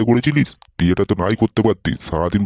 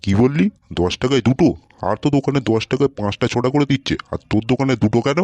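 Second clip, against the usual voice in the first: indignant disbelief; 7 semitones lower than usual. Acted. Customer challenges fuchka seller over the price, indignant. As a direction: question it as if being cheated.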